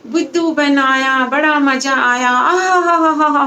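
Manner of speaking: slow teasing sing-song, then high laughter; mocking laugh. Boy mocks the fooled villagers, slow teasing laugh. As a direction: gloat at fooling them.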